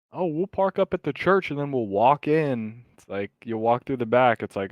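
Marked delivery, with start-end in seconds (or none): 0.1-2.8 mock scheming kids. Mocking kids' sneaky plan.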